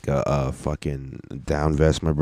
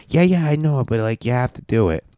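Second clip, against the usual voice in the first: Carl brushing off objections; 8 semitones higher than usual. Retold or imitated. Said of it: "fucking Carl was like".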